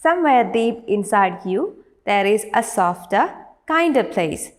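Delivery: measured classroom poem reading; poem recitation. Acted. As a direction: recite it clearly, line by line. Reads the whole poem again.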